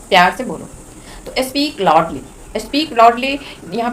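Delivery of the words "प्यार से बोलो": gentle request. Shown as a demonstration. Teacher demonstrates asking someone to speak lovingly, gentle. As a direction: ease down and ask gently.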